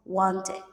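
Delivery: "wanted" as two syllables, ending id; careful model of "wanted" with id ending; extra id syllable. Shown as a demonstration. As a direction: say "wanted" like want-id. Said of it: "the ending sound is ed".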